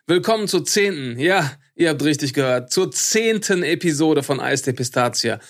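pompous, grandiose announcer read; arrogant. Acted. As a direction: boast like a self-proclaimed champion. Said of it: "es wird nicht mehr arroganter".

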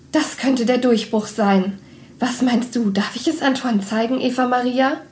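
lightly voiced eager young woman. Blonde sister's eager question.

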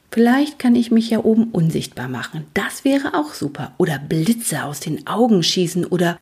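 dream up superpowers with light eagerness; lightly voiced eager Luzifer. Luzifer daydreams about powers, lightly voiced and eager. The young hero muses excitedly.

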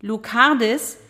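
high, slow, shrill phone shout; shrill neighbour yelling. Acted. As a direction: squawk the news down the line. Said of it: "schrie Loretta".

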